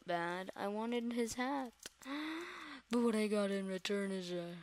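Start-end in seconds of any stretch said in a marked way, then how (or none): 1.8-2.9 gasp. Real, not acted. Regretting the hat in game.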